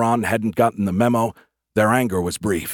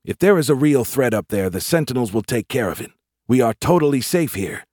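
raised, lightly voiced young soldier's argument; complaining private, insistent; 4 semitones higher, 3 dB louder than usual. Private assuring squadmates they are safe, insistent. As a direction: insist a little higher and louder. Larry argues with his squadmates.

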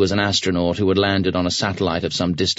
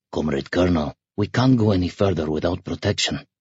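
helmsman's reluctant, apologetic mutter. A narrator's reading. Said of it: "muttered apologetically".

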